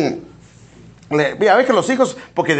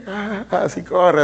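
ah, así corre drawn out slowly like a lazy jog; slow plodding run; much slower than usual. Shown as a demonstration. Preacher acting out the phlegmatic's slow run, drawn out. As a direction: stretch out así corre to show a slow pace. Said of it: "así con su pasito".

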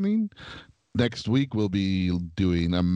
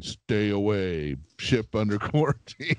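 warning broadcast; slower than usual. Retold or imitated. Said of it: "a loud voice that was saying".

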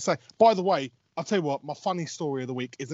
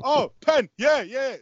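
high, louder burst of sudden excitement; excited reaction; 10 semitones higher, 5 dB louder, slower than usual. Retold or imitated. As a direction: re-enact perking up at a penalty. Reacting to spotting a penalty.

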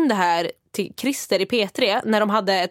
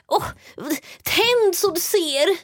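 put-on higher, slow, sing-song reminder to an old person; mock patronizing carer; 7 semitones higher, much slower than usual. Carer telling her to turn the light on, mock patronizing. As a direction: drag out each word like talking to a child. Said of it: "de bara".

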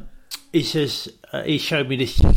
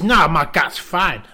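Kim voice; 3 semitones higher, 6 dB louder, slower than usual. Retold or imitated.

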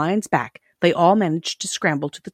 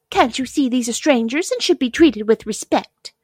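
high-voiced princess scolding; indignant china princess; 7 semitones higher than usual. A narrator's reading. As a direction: reprove the clown in a raised little voice.

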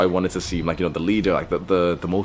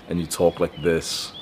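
slow, slightly lowered seduction voice; slow resonant masculine; 2 semitones lower than usual. Shown as a demonstration. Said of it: "activate that slow, resonant, masculine voice".

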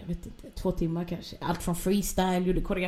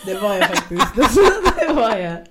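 laughing admission, louder; 4 semitones higher, 9 dB louder than usual. Real, not acted. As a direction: laugh as you own up to it. Skrattar medan hon erkänner. (skrattande erkännande, högre)

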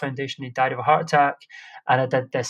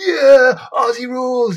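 loud, high mock American accent cheer; 10 semitones higher, 9 dB louder, slower than usual. Mocking the lads in vests at the gig, in a loud American accent. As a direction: bellow it like a hammed-up American frat bro. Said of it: "That was an American accent".

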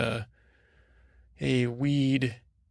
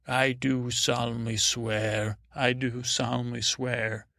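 solemn oath swearing. Pretend. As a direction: pledge it like a knight's oath. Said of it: "hold your hand up like you're swearing".

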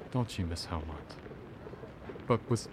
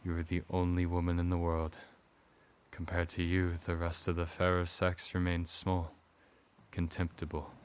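leading man; 4 dB louder than usual. Acted. Husband declares love to wife.

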